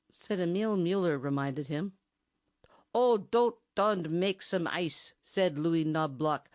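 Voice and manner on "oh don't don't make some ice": sarcastic. Acted. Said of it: "sarcastic shakes of his head".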